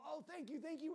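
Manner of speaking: high-pitched, mock effusive gratitude; gushing thanks. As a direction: imitate someone overflowing with thanks. Retold couple's gushing gratitude.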